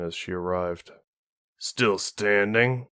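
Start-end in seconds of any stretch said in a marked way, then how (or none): 1.6-2.9 slow, dry teasing question; quipping. Acted. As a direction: drawl it as a dry joke. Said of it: "Wolfgang quipped".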